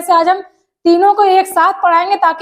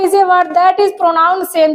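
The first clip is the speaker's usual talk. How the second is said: slow dictation reading; much slower than usual. Shown as a demonstration. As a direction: read the definition very slowly, word by word. Reads definition slowly. (धीमे-धीमे परिभाषा पढ़कर सुनाना)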